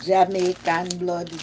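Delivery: put-on slow, loud Jamaican accent. Vlogger claiming Jamaican blood, slow put-on Jamaican accent. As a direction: throw in a drawn-out Jamaican accent. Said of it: "Jamaican accent".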